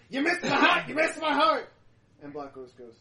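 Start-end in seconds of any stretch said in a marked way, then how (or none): 0.1-1.7 much higher, much louder manic laughing taunt; cackling taunt. Acted. Vampire cut in half taunting Black Rose, cackling. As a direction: laugh it out like a maniac.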